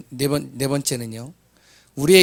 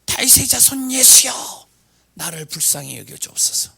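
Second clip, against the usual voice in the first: blind man crying out; 10 semitones higher, 5 dB louder than usual. Retold or imitated. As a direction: call out desperately for mercy. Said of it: "그래서 소리를 지르는 거예요".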